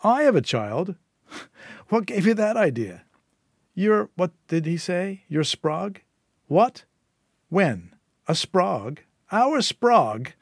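high, mocking disbelief; incredulous Syl. Syl learning of the supposed child, high and incredulous. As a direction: question it in mounting disbelief.

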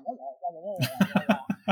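muffled trombone-like "wah wah" with a laugh; laughing Charlie Brown teacher drone; Charlie Brown teacher noise. Retold or imitated. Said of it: "that Charlie Brown".

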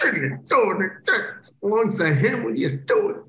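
假装难以置信地追问; mock disbelief. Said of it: "I go".

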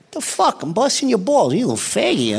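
bust his balls like Pesci; Joe Pesci impression. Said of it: "That was an incredible impression".

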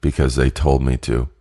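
flat, deadened sleep-talker delivery; emotionless monotone. Retold or imitated. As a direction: say it blankly, with no emotion at all. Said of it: "in just the most monotone voice, no emotion".

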